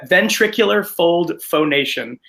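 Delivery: ventricular fold phonation said slowly, each word spelled out; slow careful repeat. Shown as a demonstration. Actor repeats the term for the interviewer, slow and deliberate. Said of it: "I'll say it again".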